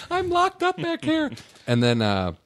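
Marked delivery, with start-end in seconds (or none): 0.1-1.3 high, wailing trapped cry; mock panicked cry. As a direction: plead like you're locked in. Continuing trapped bit.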